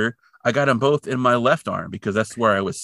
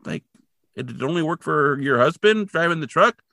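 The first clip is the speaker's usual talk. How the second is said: pitched-up, exasperated objection; incredulous rant; 6 semitones higher than usual. Real, not acted. Viewer arguing with the mother on screen, pitched-up disbelief. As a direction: jab at the plot's logic. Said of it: "And I'm like".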